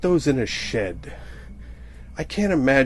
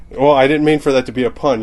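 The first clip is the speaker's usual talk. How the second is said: louder, fast exclamation; blurted pun aside; 6 dB louder, faster than usual. Real, not acted. Comic realizing his accidental pun, blurting it out fast and loud. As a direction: blurt it out, caught by your own pun.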